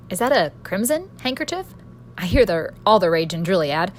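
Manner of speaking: pathetic joke. Acted. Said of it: "I pathetically joked".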